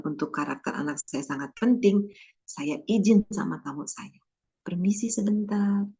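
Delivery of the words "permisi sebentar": whispered excuse me; polite whisper. Retold or imitated. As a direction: slip away from guests with a whisper. Excusing self to guests.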